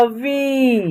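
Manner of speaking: वी with a long, held ee; letter pronunciation. Shown as a demonstration. Teacher showing how V is said, वी held long. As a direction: stretch the ee in वी. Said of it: "इसका उच्चारण होगा".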